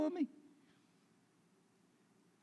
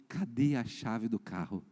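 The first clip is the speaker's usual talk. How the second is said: retold stern wife; 6 semitones lower, slower than usual. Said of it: "olhando bravo pra mim".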